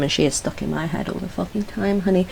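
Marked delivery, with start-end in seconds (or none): 2.0-2.3 vocal stim. Retold or imitated. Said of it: "she's another vocal stim".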